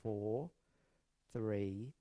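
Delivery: soft, evenly spaced counting with gentle lifts; measured, soothing breathwork guidance; guided breathing count. Acted. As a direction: pace the breath calmly, leaving space between counts.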